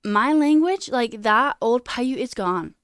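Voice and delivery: elder lamenting her language will die, loudly; grieving elder. Retold or imitated. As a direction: mourn the dying language, raw. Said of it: "she was like".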